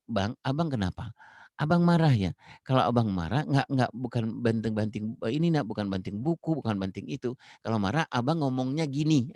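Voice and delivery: put-on patient, gentle correction of a child; calm parent. Parent calmly teaching an angry son to speak, gently. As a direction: steer the angry child kindly toward words. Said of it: "misalnya kita akan bilang".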